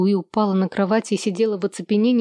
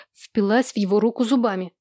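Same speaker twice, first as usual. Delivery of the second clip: plain reading voice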